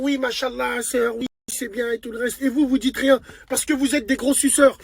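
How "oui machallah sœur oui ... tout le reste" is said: mock imam voice. Mocking imam's soft approval.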